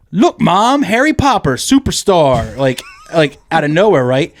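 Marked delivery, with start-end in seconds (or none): 0.1-2.6 higher-pitched excited little kid impression. Little kid calling to Mom in the movie, imitated kid voice. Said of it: "one of them just goes".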